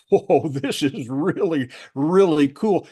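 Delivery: amazed laugh. Retold or imitated. Climbers waking to clear sky, amazed and laughing. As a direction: marvel at the view like a stunned climber.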